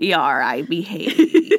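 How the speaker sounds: low, piratey mock Irish; pirate-like Irish accent. Host introduces themself in the joke accent, pirate passing as Irish. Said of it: "just doing a pirate accent".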